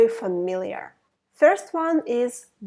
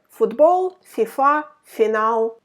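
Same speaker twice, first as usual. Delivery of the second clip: excited; 6 dB louder than usual. Shown as a demonstration. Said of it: "Everything you need to know in one letter".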